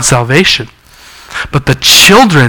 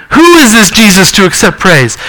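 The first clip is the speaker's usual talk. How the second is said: higher, rhetorical "who" stressed and falling; preacher echoing the Pharisees, higher and ironic; 4 semitones higher than usual. Real, not acted. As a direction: throw the question back with irony. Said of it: "just think of the irony".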